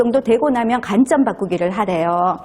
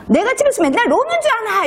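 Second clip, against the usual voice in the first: wife's high, raised retort; 12 semitones higher than usual. Retold or imitated. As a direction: snap back with a raised voice. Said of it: "언성이 높아져요".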